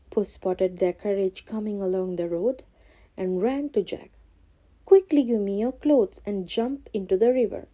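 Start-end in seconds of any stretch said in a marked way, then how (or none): 4.8-7.7 a touch of urgency; urgent cry. Acted. Cat urges Jack to jump in, mildly urgent. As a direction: hurry him along. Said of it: "he cried".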